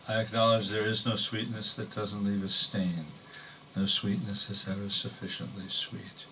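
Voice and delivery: measured, restrained poem delivery; poetry reading. Acted. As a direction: read verse to an audience, pausing between phrases.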